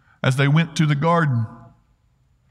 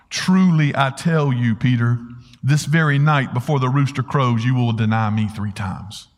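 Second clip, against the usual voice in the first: measured solemn reply with a touch of pity; 4 semitones lower than usual. Retold or imitated. Jesus answering Peter's boast, pitying. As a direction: answer gently, sinking lower at the end. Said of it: "knowing how he had some pity".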